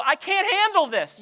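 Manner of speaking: high, loud whiny overwhelm; mock overwhelmed cry. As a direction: play a swamped, whining soul.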